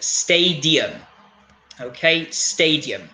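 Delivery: "stadium" slowly as STAY-dee-um; measured teacher's "stadium"; careful model pronunciation. Shown as a demonstration. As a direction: spell out the sounds of "stadium". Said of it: "when we pronounce them slowly".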